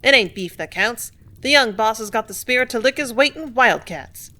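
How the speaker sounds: a rough-voiced worker backing the boss; workman in the crowd. Workman in the crowd defending Benway, loud rough voice. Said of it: "one said".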